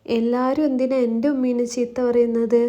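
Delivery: put-on mild child voice defending his mother; hint of a hurt little boy; little child's voice. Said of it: "ഒരു കുഞ്ഞു ശബ്ദം അവിടെ ഉയർന്നു കേട്ടു".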